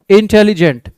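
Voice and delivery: इंटेलिजेंट said in separated syllables; broken into syllables. Shown as a demonstration. Teacher showing students the syllable count, इंटेलिजेंट broken into parts. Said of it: "pronunciation को तोड़ के कर रहे हैं".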